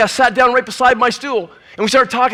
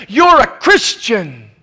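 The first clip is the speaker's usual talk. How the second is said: accusing shout; 3 dB louder, much slower than usual. Retold or imitated. Stranger confronts preacher in bar.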